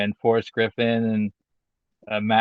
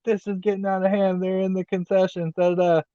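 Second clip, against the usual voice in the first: higher-pitched mock commentator announcement; hammed-up imitation of a commentator breaking sad news mid-match; a light take on a play-by-play voice turning somber; imitating Excalibur; 6 semitones higher than usual. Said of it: "Excalibur's like".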